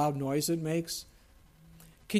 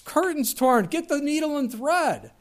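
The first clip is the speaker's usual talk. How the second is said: put-on Yiddish accent; 9 semitones higher than usual. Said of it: "I think they're like".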